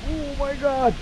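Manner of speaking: high, slow cries of disbelief; real excitement. Real, not acted. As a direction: gasp it out in real thrill at the catch. Sees a big fish surface.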